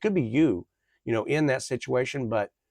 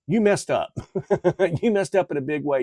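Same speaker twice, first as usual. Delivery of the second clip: gleeful callout; 5 semitones higher, 4 dB louder than usual. Real, not acted. Calls out the ex with glee.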